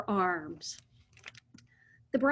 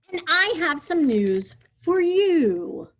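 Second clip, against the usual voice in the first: polite; 8 semitones higher, 6 dB louder than usual. Acted. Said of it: "spoke more politely than Lulu".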